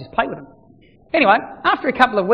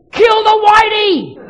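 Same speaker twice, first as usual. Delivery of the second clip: high, slow, shouted chant of a crowd; crowd scream; 13 semitones higher, 9 dB louder, much slower than usual. Retold or imitated. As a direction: yell it like a whole stadium baying. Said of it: "you would hear them scream".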